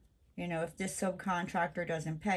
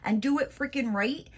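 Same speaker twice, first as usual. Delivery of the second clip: sassy telling off; 2 semitones higher than usual. Retold or imitated. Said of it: "and I'm just like".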